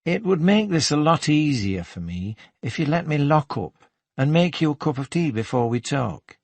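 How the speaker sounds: lightly voiced Geordie lilt, pitched slightly up; chatty Geordie shop assistant. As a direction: invite him to tea with a hint of Geordie.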